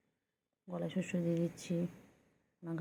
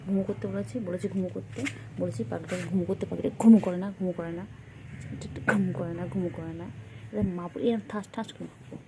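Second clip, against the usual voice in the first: louder, exasperated telling-off of a pet; mock scolding; 5 dB louder than usual. Real, not acted. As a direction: scold the bird that won't go to sleep. Scolds pet bird for not sleeping.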